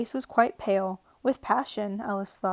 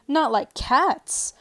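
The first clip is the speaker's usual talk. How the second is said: high, loud, slow outraged mouse; loud, high, slow indignant mouse voice; shrill passionate; 5 semitones higher, 6 dB louder, much slower than usual. Acted. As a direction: screech it in disbelief. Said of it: "in a shrill, passionate voice".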